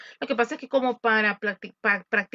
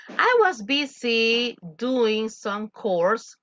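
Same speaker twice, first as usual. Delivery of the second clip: slow model line; 3 dB louder, much slower than usual. Shown as a demonstration. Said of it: "model dialogue".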